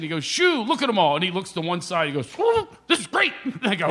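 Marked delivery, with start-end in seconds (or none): 0.2-1.2 higher, overdone line reading; amateur actor's retake. Retold or imitated. 2.3-3.3 high, exaggerated mock amazement; imitating a non-actor's excited line; overacted amateur take. Imitating actor's overdone retake.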